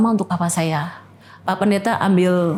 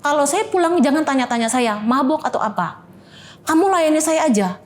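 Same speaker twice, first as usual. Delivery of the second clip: sedikit lebih tinggi, tiru bentakan suami yang mabuk; meniru suami marah; 4 semitones higher than usual. Retold or imitated. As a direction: suami mabuk memerintah istri, nada marah ringan. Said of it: "dia malah lebih marah". (tiruan suami marah yang ditahan)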